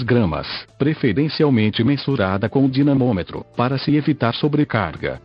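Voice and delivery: synthetic computer voice reading; robotic text-to-speech narration. Real, not acted. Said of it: "falo através desta voz sintetizada".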